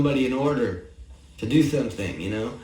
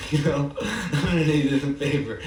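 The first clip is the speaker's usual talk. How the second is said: laughing; 3 semitones higher than usual. Real, not acted. Laughing at his own joke.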